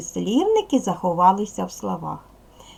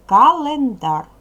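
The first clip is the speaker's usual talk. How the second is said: календар said slowly and louder, broken into ка-лен-дар; slow, loud teacher's dictation of календар, syllable by syllable; 5 semitones higher, 7 dB louder, slower than usual. Shown as a demonstration. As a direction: sound out календар in three separate syllables. Word read out for syllable counting.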